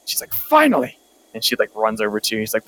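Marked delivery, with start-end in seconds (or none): 0.3-1.0 high, loud exasperated scream. Acted. Wounded boss screaming at the late party. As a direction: scream it at them in relief and anger. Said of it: "she screams at you".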